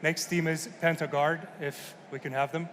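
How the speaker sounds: hoarse, croaky sick voice; talking through a sore throat. Real, not acted. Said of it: "Sorry for the croaky, uh, voice too".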